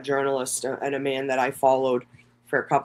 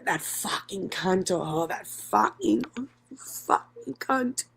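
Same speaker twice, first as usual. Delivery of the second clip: slow, higher mock voice of a fake video; AI video of her; 5 semitones higher, 5 dB quieter, slower than usual. Creator mimicking an AI video made of her, slow and high. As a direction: drawl it out slowly like a cheap AI clone. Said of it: "I've had A I videos made of".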